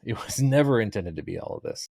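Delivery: repeated through a real laugh; amused laugh on the words. Real, not acted. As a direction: say it again, chuckling at how it grew. Laughing repeat of own line.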